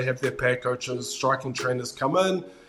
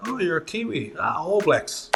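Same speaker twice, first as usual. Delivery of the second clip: lightly voiced executive, higher and a bit breathy-bright with surprise; a hint of an eager American exec; imitating excited executive; 6 semitones higher than usual. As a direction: mimic the boss lighting up at meeting a Kiwi. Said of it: "he goes".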